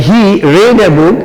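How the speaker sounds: slow, word by word; slow dictation. Shown as a demonstration. Teacher reading the sentence slowly to students. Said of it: "এটা আবার মনে করো না তোমরা".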